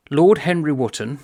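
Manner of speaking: name set out firmly and deliberately; slow reading. Shown as a demonstration. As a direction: read the name with weight. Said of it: "but slowly".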